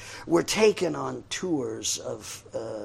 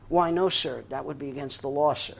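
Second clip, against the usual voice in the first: barked sir yes sir; 4 dB louder, faster than usual. Retold or imitated. Lieutenant refuses.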